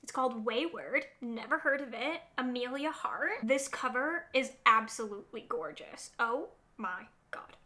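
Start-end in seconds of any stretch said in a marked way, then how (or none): 6.2-7.6 breathy whispered oh my God; whispered awe. Real, not acted. Vlogger admires a gorgeous cover, whispering. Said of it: "I get way too excited about this".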